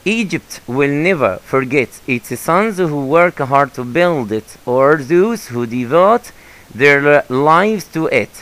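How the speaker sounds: slow, careful English read-aloud for the class; teacher slowly reading the passage to the class. Shown as a demonstration. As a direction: read it out slowly so students follow.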